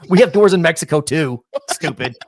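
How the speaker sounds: loud retort, dropping to a muttered insult; pissed off. Retold or imitated. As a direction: imitate an offended passenger snapping back. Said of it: "that guy was probably pissed".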